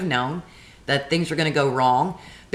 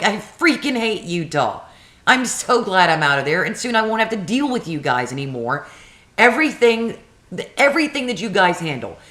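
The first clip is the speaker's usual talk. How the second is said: retold angry rant; 4 semitones higher than usual. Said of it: "I'm like".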